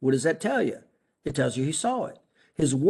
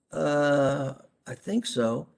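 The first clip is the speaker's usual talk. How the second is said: hesitant, trailing reply with a pause on uh; a mild doubtful patient reply; unsure answer; much slower than usual. Shown as a demonstration. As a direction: answer like you can't really see it. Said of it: "cautious and not sure".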